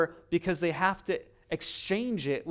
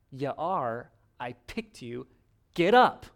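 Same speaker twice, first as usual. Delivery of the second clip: God's urging; 2 semitones lower, 4 dB louder, slower than usual. Retold or imitated. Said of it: "And God's like".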